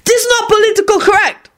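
put-on high, caricatured Asian accent; Asian-accented call. A narrator's reading. Man objecting from behind, high Asian accent. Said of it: "an Asian man behind them called out".

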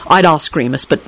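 low-key, somber and concerned. Acted. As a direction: confide it somberly, slightly subdued. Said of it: "finished in a concerned voice".

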